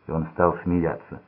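usual speaking voice

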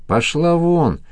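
sharp angry yell, pitched high; furious high cry of get out; angry shout. Acted. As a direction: bark her away in fury. Madman drives woman away.

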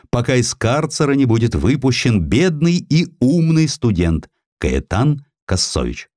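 usual speaking voice

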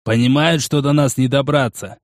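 lightly voiced, unhurried veteran watchman; musing Porokh. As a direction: reason it out as the seasoned fighter.

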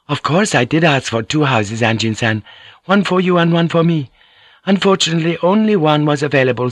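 a courteous lady explaining sweetly; Mariko, gently teasing. Acted. Narrator voices Mariko.

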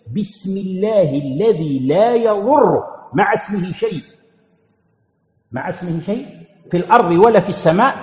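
slow, deliberate recitation, each word set apart. Shown as a demonstration. Teacher reciting the morning dua to students, slow and measured. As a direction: recite it slowly like a remembered prayer.

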